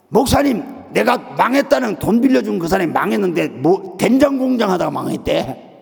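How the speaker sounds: high-pitched, agitated retold complaint; acted grievance. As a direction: pour out the trouble to the pastor, imitating an upset caller. Caller's acted grievance on phone.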